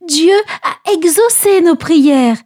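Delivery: rejoicing. A narrator's reading. Mother rejoicing that God saved her baby, slow and joyful. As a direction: savour the answered prayer. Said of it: "se réjouit Jochebed".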